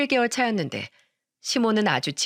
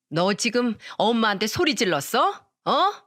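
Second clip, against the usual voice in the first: indignant mother-in-law. Acted. Mother-in-law snaps back.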